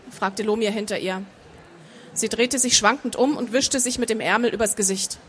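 measured audiobook narration; story narration. A narrator's reading. Author reading her fantasy novel to an audience, measured narration. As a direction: read the story out evenly and composed.

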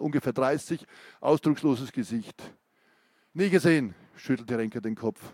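gripping reading of an interrogation scene; story narration. A narrator's reading. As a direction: read it like a tense crime novel. Author reads thriller interrogation scene.

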